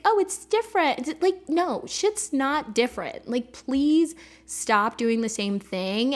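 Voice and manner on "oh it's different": much higher, naive self-mocking voice; mock self-deception. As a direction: mimic her own excuse in a silly high voice. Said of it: "I'll be like".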